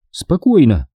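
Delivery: high woman's voice, slowing him down; steady him, pitched high; narrator's high voice for Sonya, calm and businesslike; Sonya, patient. A narrator's reading. Sonya calming the panicked hero.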